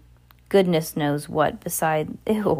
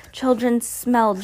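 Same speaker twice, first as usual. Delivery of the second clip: higher, slow witch's mock scream; screamed disgust; 6 semitones higher than usual. A narrator's reading. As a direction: draw it out in high-pitched revulsion. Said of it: "she screamed".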